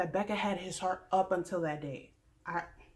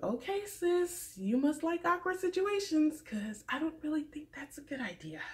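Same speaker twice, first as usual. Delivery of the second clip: sarcastic; 7 semitones higher than usual. Retold or imitated. To Crystal on screen, mock sarcastic warning. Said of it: "I'm just like".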